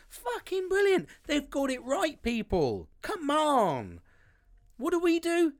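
high, loud and fired up; loud rallying cry. Real, not acted. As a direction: rouse the listeners, pitch way up. Rallying men to change.

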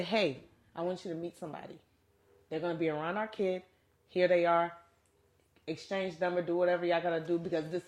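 calm sincere. Retold or imitated. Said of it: "you would say".

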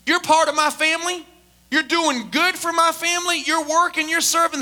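forceful pastor promising protection; impassioned preaching. Real, not acted. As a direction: preach assurance to the congregation.

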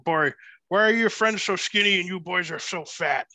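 put-on lightly done Newfoundland accent, a bit piratey; Newfie accent. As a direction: tease the boys in a mild Newfie accent. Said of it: "in his Newfie accent, sounding like a pirate".

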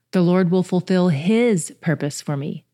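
"his" lifted with a rise; stress on his. Shown as a demonstration. Meditating aloud, weight on his purpose. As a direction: point the verse at "his". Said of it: "put the emphasis on a different section each time".

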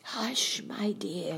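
high, breath-filled shushing; hushing. A narrator's reading. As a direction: shush her anxiously. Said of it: "Don't speak so loud".

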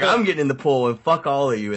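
retold storm-off. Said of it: "I was fucking mad".

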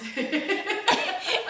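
bursting high laugh. Real, not acted. Remembering husband's beers, high bursting laugh.

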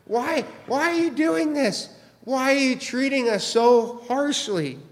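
lightly acted desperate workers begging Pharaoh; pleading foremen. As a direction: whine like the wronged foremen.

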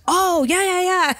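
mock eager high yeahs; a high, eager imitation of the tour guide; imitating the guide. Imitating the tour guide nodding along.

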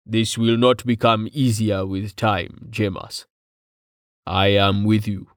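measured, level-toned solemn figure; lightly voiced stoic rumbler; grave, steady companion. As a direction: stand by him, evenly and gravely.

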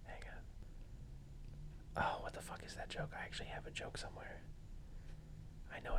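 whispered under his breath, searching memory; whispering to himself. Real, not acted. Friend stalls for time, whispering to himself. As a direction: hush it to yourself. Muttering to self while thinking.

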